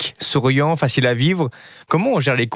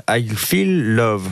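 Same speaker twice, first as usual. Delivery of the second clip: slow, drawn-out English pronunciation; English words stretched out slowly in an English accent; showy English accent; 2 semitones lower, much slower than usual. Real, not acted. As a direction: show off your English accent, taking it slowly. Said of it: "Vous avez vu mon accent anglais".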